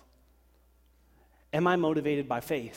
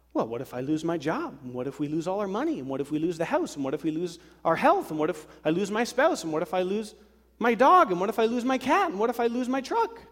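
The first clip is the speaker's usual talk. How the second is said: escalating mock panic; 5 semitones higher than usual.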